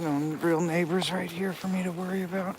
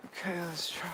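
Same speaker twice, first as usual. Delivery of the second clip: whispering; 6 dB quieter than usual. Real, not acted. Hushed before a call.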